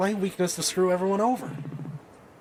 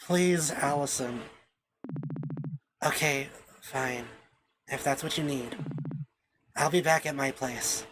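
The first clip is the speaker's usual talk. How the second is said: hushed sadness; 6 semitones lower, 6 dB quieter than usual. Acted. Allison leaves Mel in tears.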